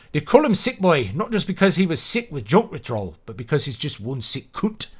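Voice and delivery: Scottish accent. Shown as a demonstration. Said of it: "trying to replicate a Scottish accent".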